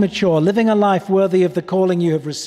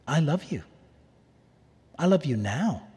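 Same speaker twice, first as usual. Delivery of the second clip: tender; 2 semitones lower, 5 dB quieter than usual. Pretend. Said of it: "Rather, he says".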